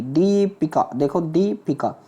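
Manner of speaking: "दीपिका" with drawn-out dee; long-then-short "दीपिका". Shown as a demonstration. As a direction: hold दी, then a quick पिका in दीपिका. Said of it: "दीप है बड़ी बनेगी".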